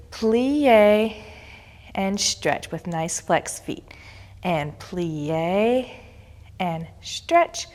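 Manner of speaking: slow, drawn-out counted cues; stern rhythmic counting. Shown as a demonstration. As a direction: count each move out slowly. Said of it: "I'm just gonna demonstrate it".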